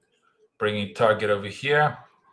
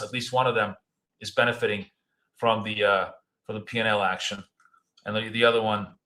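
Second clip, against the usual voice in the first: talking while chewing gum. Real, not acted. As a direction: speak around a wad of gum. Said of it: "oh, I'm chewing gum?".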